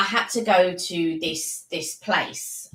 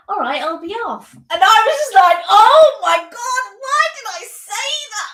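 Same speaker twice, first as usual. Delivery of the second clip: slipping into West Country; 12 dB louder than usual. Retold or imitated. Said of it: "copy the accent".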